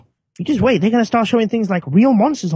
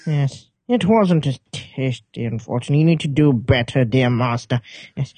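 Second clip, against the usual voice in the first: very slow, pompous West London toff; posh London parrot, savouring each word; West London accent; 3 semitones lower, slower than usual. Acted. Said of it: "in the west of London".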